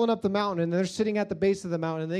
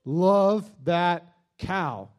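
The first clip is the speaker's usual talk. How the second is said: dopey adoration; 2 semitones lower, 3 dB louder, much slower than usual. Retold or imitated. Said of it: "and you went".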